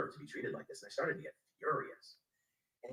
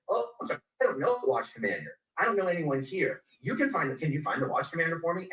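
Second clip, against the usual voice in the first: loud sarcastic retort; 3 semitones higher, 10 dB louder than usual. Retold or imitated. Retold sarcastic reply.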